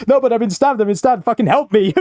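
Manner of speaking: high laughing plea, hammed up; high-pitched mock pleading. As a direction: beg for help in a high mock voice. Voicing the pleading stabbed man.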